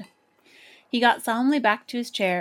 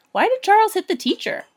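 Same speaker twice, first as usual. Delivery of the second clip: quick anxious question; 12 semitones higher, 6 dB louder than usual. A narrator's reading. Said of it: "I asked quickly".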